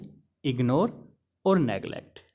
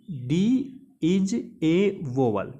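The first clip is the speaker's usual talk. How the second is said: slow keyword; much slower than usual. Shown as a demonstration. Teacher to students, giving the mnemonic keyword, very slow and deliberate. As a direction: drag out इज ए वोवेल word by word, very slow. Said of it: "तो इसमें लेना हमें D".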